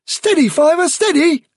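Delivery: high, urgent reassurance; calm a frightened friend; Blackberry to Fiver, urgent soothing; soothing young rabbit. Acted.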